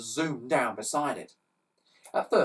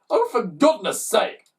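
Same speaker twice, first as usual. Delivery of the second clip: muttered; 8 semitones higher, 8 dB louder, slower than usual. Acted. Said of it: "muttered Slime".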